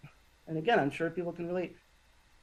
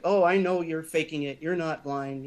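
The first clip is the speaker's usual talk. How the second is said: aggressive accusation; 2 semitones higher than usual. Retold or imitated. Man in the hallway accusing a blind passerby, mildly aggressive. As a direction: retell an accuser with a touch of aggression. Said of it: "being aggressive".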